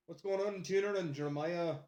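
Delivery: put-on Scottish accent; casual Scottish impression. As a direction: greet friends in a mock Scottish accent. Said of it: "Scottish accent for a moment".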